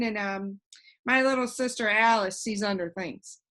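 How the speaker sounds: put-on a cheerful know-it-all boy floating in the air; voiced boy Alec. Alec describes family.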